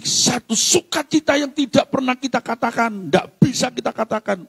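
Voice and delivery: high, lifted exhortation; forceful preaching. Real, not acted. Preacher describing inexpressible joy, forceful preaching. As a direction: raise the pitch and proclaim it.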